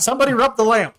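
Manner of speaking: high, squeaky little cat voice, let down; little genie voice. Acted. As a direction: peek out and find the wrong person. Genie asks to be freed.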